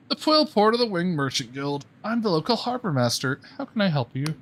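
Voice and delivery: harbor master voice. Acted. A sleepy harbor master greets travelers, lightly voiced.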